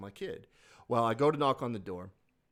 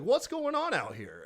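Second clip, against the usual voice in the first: much higher, chirpy average-white-dude voice; 11 semitones higher than usual. Retold or imitated. A clueless white dude calling out to the yard, high and chirpy. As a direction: play a clueless suburban guy poking his head out. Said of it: "like your average white dude is like".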